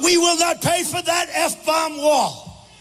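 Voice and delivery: high, slow mock defiance; hammed-up indignant proclamation; imitating crazed outrage. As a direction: mimic an outraged refusal, stretching the words. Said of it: "he was going crazy".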